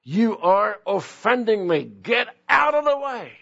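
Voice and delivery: high, stern mock scolding; mock rebuke. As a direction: act out an offended dismissal. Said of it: "he didn't say".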